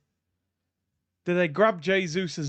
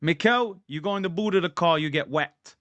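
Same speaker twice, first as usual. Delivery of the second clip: Italian impression. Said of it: "That was my Italian impression".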